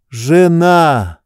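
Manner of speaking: ordinary delivery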